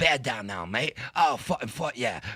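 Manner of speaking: exaggerated, put-on, fake Australian accent character voice. Speaker shows off the Australian gay guy he practiced in the mirror: put-on gay Australian accent. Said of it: "you must have been practicing that".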